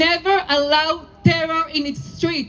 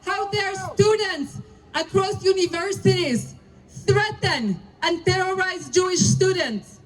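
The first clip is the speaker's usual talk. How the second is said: indignant rally oration. Real, not acted. Rabbi to the rally crowd, indignant and emphatic. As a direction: hammer each how dare at the crowd.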